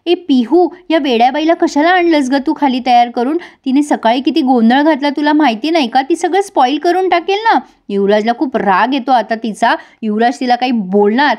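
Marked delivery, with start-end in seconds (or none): 0.1-7.6 higher-pitched jealous telling-off; mock scolding shout. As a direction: snap at her in a jealous scold. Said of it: "मिताली ओरडते पिंकीवर". (जळफळून ओरडत, उंच आवाजात)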